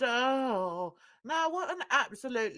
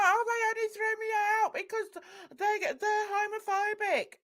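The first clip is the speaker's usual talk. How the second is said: much higher, fast mocking whine; high whiny mock voice; 10 semitones higher, much faster than usual. Vlogger mocks the drunk man's excuse in a high whine. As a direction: whine it like a sulky drunk blaming others. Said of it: "He was like".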